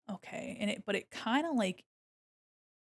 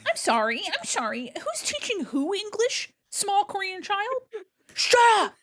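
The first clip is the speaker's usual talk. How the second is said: exasperated yell; 11 semitones higher, 6 dB louder than usual. Acted. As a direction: lose it at the kid. Teacher snapping at a child.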